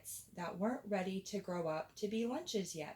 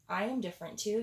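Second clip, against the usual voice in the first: a hint of a shy badger, a bit louder; lightly voiced badger; 2 semitones higher, 4 dB louder, much faster than usual. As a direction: speak up like a timid badger. Badger speaks up.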